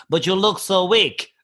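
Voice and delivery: slow mock Russian accent. Russian sizing up the comic, slow Russian accent. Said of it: "that is an exact accent".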